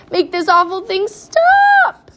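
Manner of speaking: high, loud, drawn-out demand; shouted order. A narrator's reading. Father demands the elevator stop, shouted order. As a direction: order it at full voice. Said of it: "ordered Mister T V".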